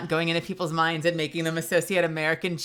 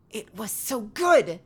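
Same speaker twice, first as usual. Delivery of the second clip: higher, slow drawn-out moan of so good; 5 semitones higher, slower than usual. Pretend. Telling the chat about pasta, slow moan. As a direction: linger on it like a tasting moan.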